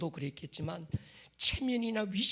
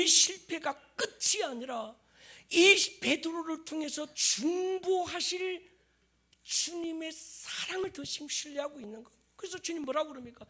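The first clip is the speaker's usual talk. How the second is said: impassioned preaching; 10 semitones higher, 5 dB louder than usual. Acted. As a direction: stretch the key words with fervour. Preaches at full force.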